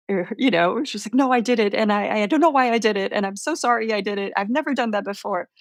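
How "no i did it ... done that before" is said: imitating a rushed, apologetic confession; retold flustered confession. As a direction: tumble quickly through a mock confession, running sorry into sorry. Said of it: "like, confessing".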